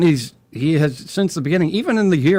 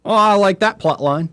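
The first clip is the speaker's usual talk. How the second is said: higher-pitched pretend fan enthusiasm; mock fan approval; 7 semitones higher than usual. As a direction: play the easily pleased viewer. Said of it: "I can be like".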